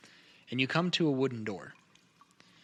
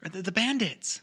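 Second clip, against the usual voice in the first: fearful whisper; 4 semitones higher than usual. Acted. Fearful mention of bandits.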